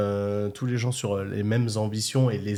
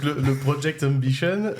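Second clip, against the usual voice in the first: Californian English accent; 4 semitones higher than usual. Shown as a demonstration. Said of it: "avec l'accent anglais, euh, californien surtout".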